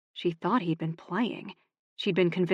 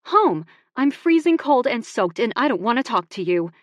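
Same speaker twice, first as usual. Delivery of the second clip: louder, higher snapping reply; angry retort; 5 semitones higher, 6 dB louder than usual. Acted. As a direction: snap back, cold and soaked. Emmy snaps back in rain.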